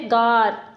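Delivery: गार said with full weight, vowel held; firm, stressed गार; stressed syllable. Shown as a demonstration. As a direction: lean on गार as the strong first beat of गार्डन. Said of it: "पहला वाला syllable stressed है".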